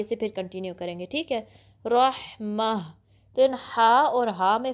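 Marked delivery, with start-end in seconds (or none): 1.9-2.7 heavy-r रहमा, breathed finish; stopping form. Shown as a demonstration. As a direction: stop on h at the end of रहमा. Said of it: "आप यहाँ stop करके".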